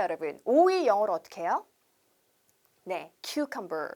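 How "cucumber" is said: cucumber drawn out slowly, "kyu-kam-ber"; slow model word. Shown as a demonstration. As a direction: spell cucumber out slowly for learners. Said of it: "그렇게 발음하시는 거고". (cucumber를 천천히 또박또박)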